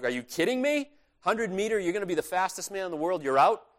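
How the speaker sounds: can't believe he'd quit; incredulous teammates. Retold or imitated. Teammates react to his refusal.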